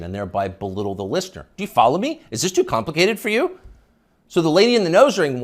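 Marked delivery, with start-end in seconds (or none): 1.6-3.6 higher, louder patronizing questions; mock condescension. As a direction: talk down as if to a child. Mocking condescending uptalk.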